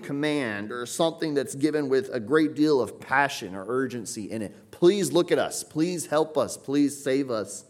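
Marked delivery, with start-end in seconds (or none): 4.7-7.7 a pleading cry to be saved, slowing at the end; urgent cry for help. Shown as a demonstration. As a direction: plead with rising then easing urgency. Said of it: "issued as an urgent cry".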